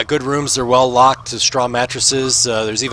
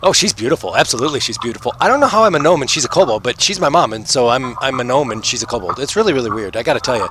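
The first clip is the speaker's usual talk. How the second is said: put-on kid voice. Gnome kid keeps talking.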